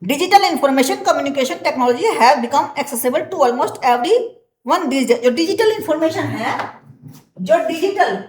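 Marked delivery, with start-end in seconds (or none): 0.0-5.2 slow, deliberate dictation pace; teacher dictating from the book; slow textbook reading. Acted. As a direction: read it out word by word for the class. Reads textbook English aloud slowly.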